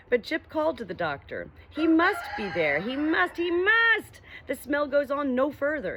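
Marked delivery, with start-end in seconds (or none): 1.7-6.0 high, loud and urgent; insistent. Acted. Dog urging the doctor, high and insistent. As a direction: insist he must be there.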